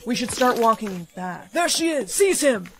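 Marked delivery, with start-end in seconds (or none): 1.5-2.7 shouted arrest. Acted. Guards seize the prince.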